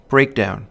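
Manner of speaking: "breakdown" with weight on both syllables; accent both halves of "breakdown"; spondaic stress. Shown as a demonstration. Lecturer giving an example of a spondee, "breakdown" accented on both syllables. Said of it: "two accented syllables".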